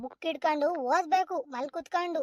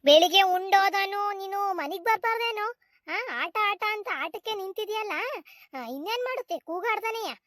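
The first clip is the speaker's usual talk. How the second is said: higher-pitched grandmotherly telling-off; scolding; 3 semitones higher than usual. Acted. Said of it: "ಯಾಕಜ್ಜಿ ನೀನ್ ಹಿಂಗ್ ಕೂಗಾಡ್ತಿದ್ಯಲ್ಲ".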